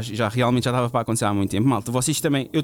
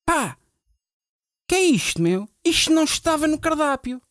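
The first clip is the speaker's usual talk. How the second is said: aggressive guy. Retold or imitated. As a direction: snap at him like an angry rocker. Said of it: "chegou-se ao pé de mim muito agressivo".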